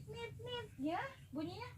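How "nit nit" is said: beep imitation. Shown as a demonstration. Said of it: "Kata bunyinya katanya nit".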